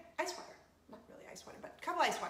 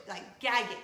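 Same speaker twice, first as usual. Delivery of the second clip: loud gag sound on gag; gagging hard; 6 dB louder than usual. Shown as a demonstration. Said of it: "literally like".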